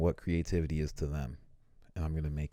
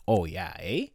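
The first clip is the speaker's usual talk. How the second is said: Canadian eh; slower than usual. Shown as a demonstration. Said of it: "we all say it".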